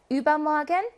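übermorgen with a long, stressed ü; stress on first syllable. Shown as a demonstration. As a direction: lean on the opening syllable of übermorgen. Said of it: "이름절의 강세가 있어요". (übermorgen의 첫음절 ü에 강세)

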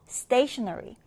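"stationery" said as STA-tionery, first syllable strongest; stress on the first syllable. Shown as a demonstration. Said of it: "첫 음절의 강세 두고요".

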